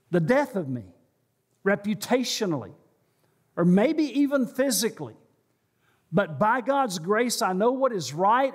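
rising with conviction; impassioned vow. Acted. Impassioned imagined believer's vow.

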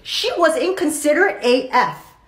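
lightly voiced devil on the shoulder; a hint of street-talking tempter; devil genie. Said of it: "And the devil genie was like".

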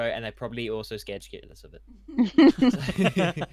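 laughing. Real, not acted. Laughing at the scary show.

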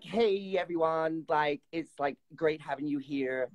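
imitating American accent. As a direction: tease the host by aping her American accent. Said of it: "Is that how you think I sound?".

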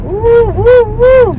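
high startled woo as the car lurches; startled yelps. Real, not acted. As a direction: yelp at the sudden stop. Hubby brakes hard, she yelps.

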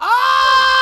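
long high, loud "ohhh"; excited "oh". Real, not acted. Player greeting the woman of the hour, excited held cry. Reacting to woman appearing in game.

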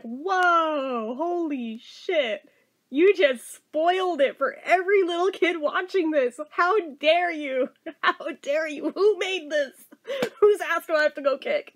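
hammed-up indignant scolding, laughing through it; a viewer scolding the film's makers, mock outrage. Laughing mock fury. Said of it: "I'm like".

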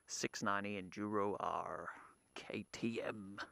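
hushed unvoiced whisper. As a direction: whisper it like a secret. Whispering the bike's model name.

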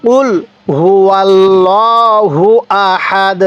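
word by word, drawn out; slow recitation. Shown as a demonstration. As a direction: recite slowly for learners to repeat. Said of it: "আরেকবার আমার সাথে পড়ুন".

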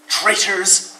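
loud outraged shout of Traitors!. Acted. Rabbit shouting at his tapping feet, loud and outraged. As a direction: yell it at your own feet. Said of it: "Rabbit shouted at his feet".

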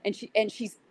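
usual speaking voice

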